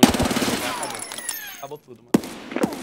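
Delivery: loud then high despairing wail; panicking gamer. Real, not acted. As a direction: despair at losing, drawn out. Dies, gives up on game.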